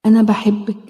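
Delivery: gentle self-help meditation guide; guided healing exercise. Acted. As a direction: talk her gently through the inner-child exercise. Leads a self-hug healing exercise.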